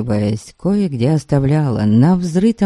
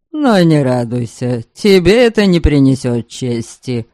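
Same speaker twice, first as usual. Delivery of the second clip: scornful taunt. Acted. Enemy chief taunting in battle.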